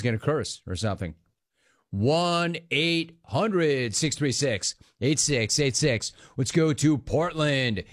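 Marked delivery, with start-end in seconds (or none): 1.9-6.1 slow, measured phone number read; radio announcer read. Acted. Radio host slowly reading the call-in number to listeners.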